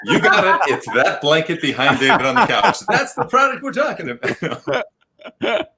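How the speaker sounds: high, laughing delight; excited reveal. Real, not acted. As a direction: announce the win with glee. Host reveals the answer excitedly.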